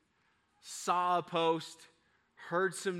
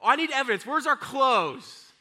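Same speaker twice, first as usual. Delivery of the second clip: high, loud imitation of insistent children; pitched-up child urgency; demanding kids; 9 semitones higher, 8 dB louder than usual. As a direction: demand it like a worked-up kid. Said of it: "Now, for my kids".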